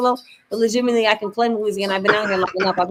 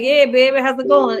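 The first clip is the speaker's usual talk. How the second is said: light Louisiana greeting; a hint of Louisiana in the voice; Louisiana accent. Shown as a demonstration. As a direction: say it with an easy touch of Louisiana accent. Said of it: "like, a Louisiana, um, accent".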